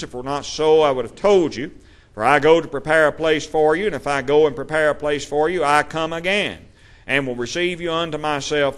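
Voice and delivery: preacher reading scripture with lifted voice. Acted. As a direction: declaim the Lord's promise to the congregation. Reads Jesus' words aloud.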